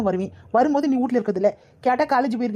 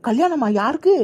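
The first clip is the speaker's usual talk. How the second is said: surprised; 2 semitones higher, slower than usual. Acted. Aunt hears surprise news.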